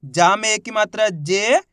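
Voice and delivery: drawn-out syllable by syllable reading; teacher spells out the first letter slowly; slow sounding out. Shown as a demonstration. Teacher shows how to read a word, slowly. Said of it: "चलिए देखिए".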